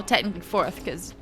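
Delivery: ordinary talk, nothing marked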